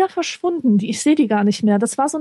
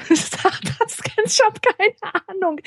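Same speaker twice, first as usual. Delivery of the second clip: laughing; 9 semitones higher, slower than usual. Real, not acted. Laughing at the odd word.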